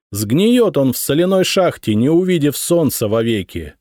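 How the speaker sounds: a goddess commanding the armies; deep chesty voice. A narrator's reading. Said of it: "А богиня подтвердила".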